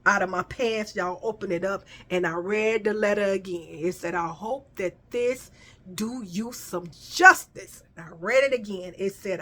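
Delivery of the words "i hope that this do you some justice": reading note slowly. Retold or imitated. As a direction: read the note with wonder.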